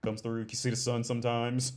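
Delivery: a lightly voiced jail guard welcoming an inmate; mock jail guard.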